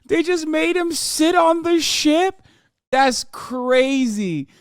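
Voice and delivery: loud, high, drawn-out incredulous laughing; slow, loud, laughing amazement; laughing disbelief. Real, not acted. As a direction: crack up in real disbelief, voice shooting up. Streamer reacts in laughing disbelief.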